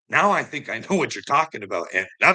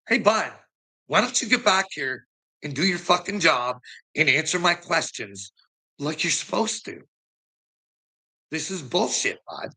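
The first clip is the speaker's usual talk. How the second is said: higher, pushy mock-angry call after him; retold confrontation; 4 semitones higher than usual. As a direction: call him back, riled up, pitched high. Retold confronting the officer at door.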